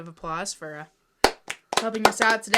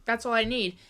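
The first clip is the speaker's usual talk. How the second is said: higher-pitched mock gloating, loud opening "Ha"; gloating scammer; 4 semitones higher, 5 dB louder than usual. Host voices a scheming fundraiser to warn creators, gloating. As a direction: play a smug schemer. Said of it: "You don't just wanna say".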